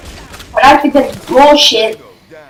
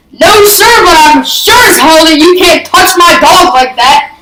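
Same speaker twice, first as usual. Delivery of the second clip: defiant shout; 3 semitones higher than usual. Retold or imitated. Kid standing up to neighbour.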